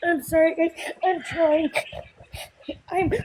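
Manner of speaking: choked, struggling apology; holding back tears, barely holding it together; upset, near tears. Real, not acted. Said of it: "I'm not okay right now".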